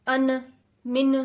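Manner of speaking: ان and من with a false bounce at the end; ان من pushed out with a faulty rebound; wrong qalqala. Shown as a demonstration. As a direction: wrongly echo the ن of ان and من. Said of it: "تو یہ آپ غلط پڑھ رہے ہیں".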